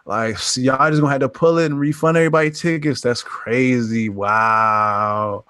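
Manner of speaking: a hint of a slow, laid-back bro; lightly voiced bro studio rep. Studio calling the theaters, laid-back bro. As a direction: drawl the bad news casually. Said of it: "it was definitely like".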